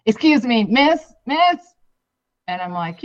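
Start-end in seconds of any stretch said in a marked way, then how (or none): 0.1-1.7 imitating the dude. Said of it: "this dude's like".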